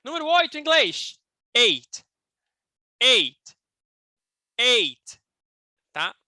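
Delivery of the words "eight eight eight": Eight with a very light, barely heard T at the end; subtle T. Shown as a demonstration. Teacher showing students the subtle T in Eight. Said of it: "o meu T, ele é bem sutil".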